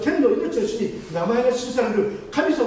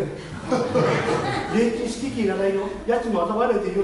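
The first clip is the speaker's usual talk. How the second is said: laughing landlady; slower than usual. Retold or imitated. Landlady offers cheap room.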